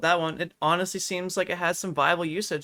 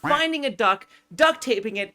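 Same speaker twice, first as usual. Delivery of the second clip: upbeat tutorial step list. Shown as a demonstration. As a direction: rattle off "finding a duck, duct taping it" as cheerful instructions. Tutorial host lists steps.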